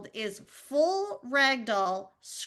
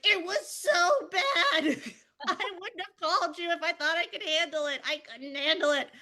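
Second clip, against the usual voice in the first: laughing exasperation; 6 semitones higher than usual. Retold or imitated. Mom telling husband how bad it was, laughing. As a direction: laugh while admitting defeat. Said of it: "I was like".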